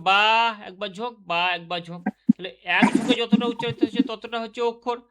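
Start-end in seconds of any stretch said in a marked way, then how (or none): 0.1-2.0 বা stressed on each beat; syllable beats. Shown as a demonstration. Teacher counts syllables in বাবা, stressing each. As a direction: hit বা once per beat. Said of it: "বাবা যদি উচ্চারণ করো".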